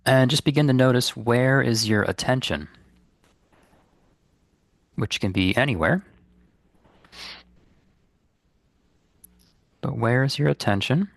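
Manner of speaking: calm, unhurried guidance with long pauses; guided meditation. Real, not acted. Meditation teacher guiding listeners to release guilt, calm and unhurried. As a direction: lead listeners gently inward, leaving space between phrases.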